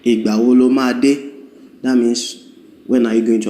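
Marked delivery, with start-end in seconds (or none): 0.1-1.2 "Ìgbà wo lo máa dé?" quick, rising at the end; Yoruba sentence demo. Shown as a demonstration. Teacher voicing a Yoruba question for students. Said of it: "somebody can tell you".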